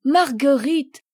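high, loud joyful call of her name. Acted. Father spotting his little daughter, joyful loud call.

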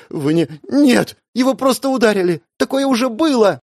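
high, loud trembling denial. A narrator's reading. Sister refusing to believe her brother is dying. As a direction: deny it with a shaking voice. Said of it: "Её голос дрожал".

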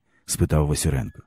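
usual speaking voice

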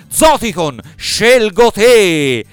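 slow drawn-out battle cry; Pokémon trainer call. Acted. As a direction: call out your Pokémon, slowly. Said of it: "che bercia per acchiappare i Pokémon".

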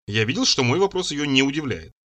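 ordinary delivery

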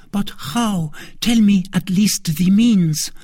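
high, urgent queen voice; pressing queen. A narrator's reading. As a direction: demand an answer anxiously.

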